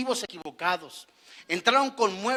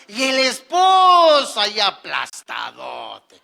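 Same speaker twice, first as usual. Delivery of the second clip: mock shout; 9 dB louder, slower than usual. Mocking the lazy husband.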